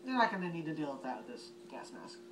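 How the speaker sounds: talking through a gas mask voice emitter; muffled through gas mask. Real, not acted. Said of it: "I'm gonna put it on so you get to see the voice emitter".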